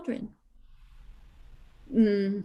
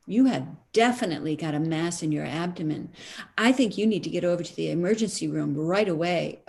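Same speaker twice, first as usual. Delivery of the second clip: lower, fast alarmed doctor voice; urgent doctor; 5 semitones lower, faster than usual. Retold or imitated. Doctor telling patient to rush to ER, fast and urgent. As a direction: rush the diagnosis, a hint of panic.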